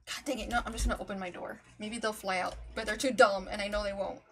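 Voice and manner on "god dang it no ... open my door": ordinary talk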